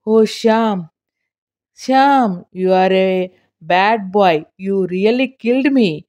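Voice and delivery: put-on slow, half-smiling old-lady chiding; a lightly voiced old woman, calmed down; mild scolding. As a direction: tease him for being a bad boy. Calmed old lady chides boy.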